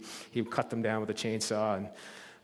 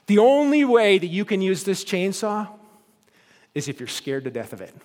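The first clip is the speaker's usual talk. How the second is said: sharp warning; 6 semitones higher, 7 dB louder than usual. Retold or imitated. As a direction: snap a stern warning at the boy. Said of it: "he spoke sharply".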